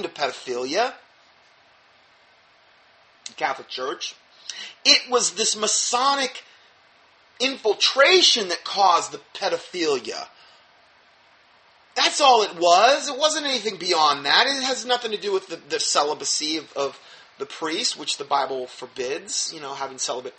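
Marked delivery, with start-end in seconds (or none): 4.8-15.8 sarcastic. Pretend. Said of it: "Rather sarcastically".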